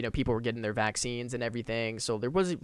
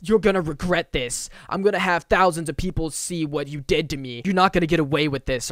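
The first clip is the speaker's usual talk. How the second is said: louder, a bit higher menacing threat; retold threat; 3 semitones higher, 5 dB louder than usual. Fallen goth guy threatening the skater, louder and angry. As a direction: warn him he'll pay for this.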